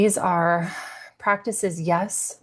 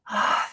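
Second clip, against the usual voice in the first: breathy "ah" of letting go; relieved sigh. Acted. Teacher evokes finally landing after long travel, relieved sigh.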